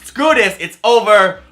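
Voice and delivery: bored parade kids quitting, building to a mock angry outburst; mock fed-up kid. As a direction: blow up like a sulky kid done with rehearsals. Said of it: "They're like".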